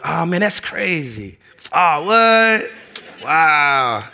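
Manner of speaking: slow, put-on amazement to wrap up the chat; fake interest. Shown as a demonstration. Showing how guys brush off a phone chat, slow mock interest. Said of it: "That's code word for I'm trying to move on".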